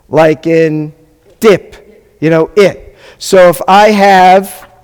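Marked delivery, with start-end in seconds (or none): 2.5-2.9 "it" said as the short vowel ih; teacher repeats the ih sound in "it"; short I demo. Shown as a demonstration. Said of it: "sounds like a short I".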